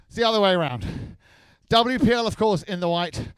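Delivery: breathless, winded announcing; out of breath. Real, not acted. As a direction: speak while catching your breath. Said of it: "It's 'cause I'm out of breath".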